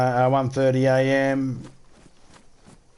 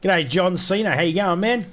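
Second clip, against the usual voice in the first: annoying greeting; 6 semitones higher than usual. Pretend. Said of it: "that annoying enough now".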